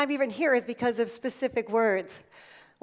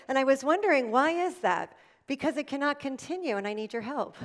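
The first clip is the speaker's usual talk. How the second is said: demo soft feedback. Shown as a demonstration. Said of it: "you can say".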